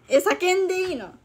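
half-shouted excitement; excited loud. Real, not acted. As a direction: ask it with a playful shout. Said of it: "叫ぶ？".

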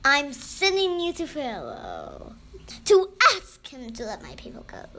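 loud, commanding proclamation; voice of God. A narrator's reading. God sends Moses to Pharaoh, thundering. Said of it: "said God".

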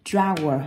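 "Drawer" said slowly and carefully as a model; đọc mẫu "Drawer". Shown as a demonstration. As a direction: model the word "Drawer" for the child. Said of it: "đọc chuẩn lại cho cô này".

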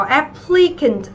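"applicant" slowly, with a short i in the middle; short i sound. Shown as a demonstration. Teacher showing students the vowel, short i in "applicant". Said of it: "nó là âm y ngắn".

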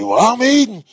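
rising indignant warning. Acted. Eating animal warns off a pest.

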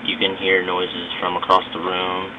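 recorded through a phone mic, scratchy and garbled; speaking through a phone app mic, a little staticky; cheap phone mic. Real, not acted. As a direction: talk into a cheap phone microphone. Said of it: "Kinda scratchy".

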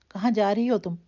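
loud thundering demand. A narrator's reading. Angry father thunders at his daughter, loud. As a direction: boom the question at her. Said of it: "راوی کی گرجدار آواز".

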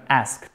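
asked with weight on the A, faint t at the end; stress on first vowel. Shown as a demonstration. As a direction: lean on the vowel of asked, then release a light kt. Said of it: "notre accent tonique sur la première voyelle".

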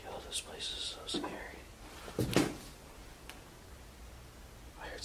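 hushed whisper after a strange voice; frightened whisper. Real, not acted. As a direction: keep your voice down, something's listening.

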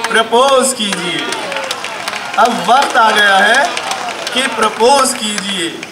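comic Urdu poetry delivery; mushaira recitation. Acted. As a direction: recite line by line, then push out the final call. Recites verse urging proposals.

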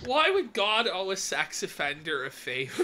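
laughing through the words; laughing while quoting. Retold or imitated. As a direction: quote it through giggles. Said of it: "Rory goes".

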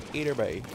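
put-on "Hey there, bye" with boy as "bye"; falling "Hey there, bye" in dialect; Newfoundlanderese. Shown as a demonstration. Repeating the dialect form, "Hey there, bye" in Newfoundlanderese. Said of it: "Newfoundlanderese, it becomes".

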